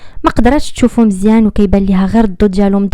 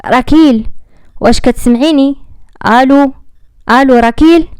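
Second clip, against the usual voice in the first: worried calling; 4 semitones higher than usual. Acted. Friend on the phone calls the silent crash victim, anxious. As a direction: call her name, growing anxious.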